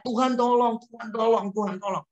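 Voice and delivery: imitating frightened people calling out to God; mock cry for help. Preacher mimics sinners crying to God, a mild mock plea. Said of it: "mereka kan teriak".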